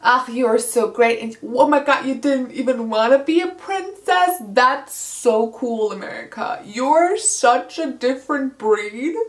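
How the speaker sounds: lightly voiced, gushing flattery; mild mock fangirl praise; gushing Georgia. Georgia flatters America to calm her, gushing. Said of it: "tries to calm America down".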